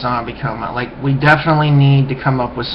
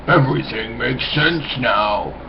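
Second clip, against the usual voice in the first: a lower, softer "Everything makes sense now"; deeper voice; 4 dB quieter than usual. Shown as a demonstration. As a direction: drop into a deeper, calmer voice. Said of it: "a deeper voice".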